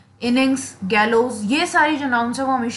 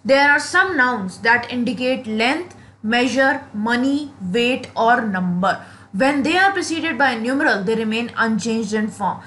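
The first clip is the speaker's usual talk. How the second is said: very slow, word by word rule reading; slow dictation; much slower than usual. Acted. Teacher dictating a grammar rule to students, very slowly. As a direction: read the rule so students can write it down.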